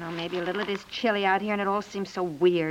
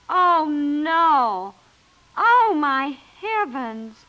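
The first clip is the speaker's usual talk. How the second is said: shocked dismay; 5 semitones higher, 7 dB louder, much slower than usual. Acted. Wife hears shocking news.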